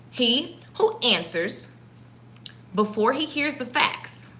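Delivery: scripture slowed right down and hushed; slow, soft repeat. Shown as a demonstration. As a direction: lay each word down softly and slowly. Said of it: "So listen".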